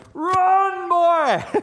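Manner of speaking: very loud, very high, shrill scream, drawn out. Retelling his dad yelling to him at the end of a run, retelling dad's loud scream. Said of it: "he would be screaming and he had a loud voice".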